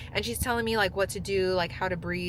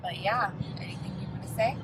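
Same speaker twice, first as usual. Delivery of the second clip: breathy whisper to the passenger; faster than usual. Real, not acted. Whispering to partner in car.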